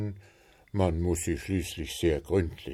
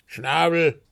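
higher, louder sharp hiss; hissed retort; 8 semitones higher, 5 dB louder than usual. A narrator's reading. Puh cutting off the little bird, hissed retort. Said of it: "zischte Puh".

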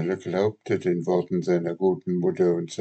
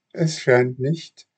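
smiling; 7 semitones higher, 4 dB louder than usual. A narrator's reading. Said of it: "antwortete lächelnd die Fee".

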